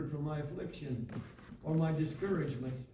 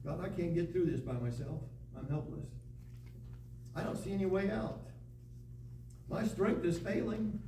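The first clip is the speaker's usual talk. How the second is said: helpless prayer; 5 dB quieter than usual. Pretend. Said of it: "The helpless commits himself to you".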